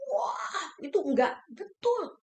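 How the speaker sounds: choked up. Real, not acted. Moved by God's love.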